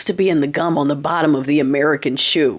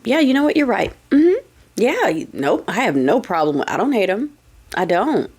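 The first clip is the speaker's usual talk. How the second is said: sarcastic agreement. Retold or imitated. Trolling friends who defend him, with fake sweet agreement. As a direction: fake cheerful yes-man, pitched up at the start. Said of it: "Why are you saying it like that?".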